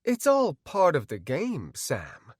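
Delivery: cool, evasive doctor; mild air of mystery; cryptic. Acted. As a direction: answer him as if withholding. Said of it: "he said cryptically".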